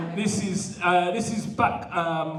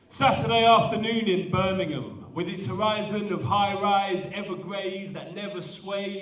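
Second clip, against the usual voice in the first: rhythmic spoken-word delivery; poetry recitation. Acted. Poet performing his Birmingham poem to the audience, rhythmic recitation. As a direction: ride the rhythm of each line.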